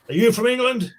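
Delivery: loud, high-pitched American questioner; older American stranger. Retold or imitated. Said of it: "he was about sixty".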